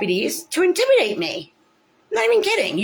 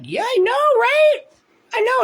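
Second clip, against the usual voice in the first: sarcastic reply; 5 dB louder than usual. Retold or imitated. Her sarcastic reply to nurse.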